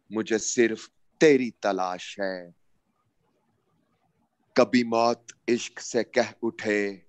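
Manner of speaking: slow, declaimed poem with long pauses; stately nazm recitation. Acted. نظم کا عنوان ہے.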